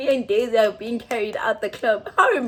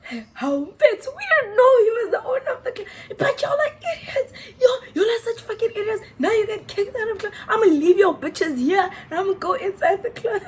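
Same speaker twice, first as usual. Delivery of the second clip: laughing; 9 semitones higher than usual. Retold or imitated. Drunk angry friend yelling, voiced.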